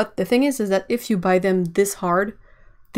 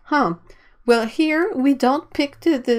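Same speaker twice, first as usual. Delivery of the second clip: snobby voice; 6 semitones higher, 4 dB louder than usual. Retold or imitated. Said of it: "And they're like".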